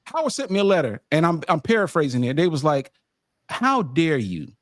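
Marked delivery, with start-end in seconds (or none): 3.5-4.5 slow, drawn-out mock outrage; mock indignation. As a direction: spell out the affront slowly, pausing between phrases. Acts out Howard's rejection letter.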